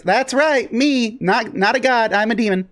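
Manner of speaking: high, proud demon boast; smug demon. Acted. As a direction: correct them with demonic pride. NPC corrects worshippers.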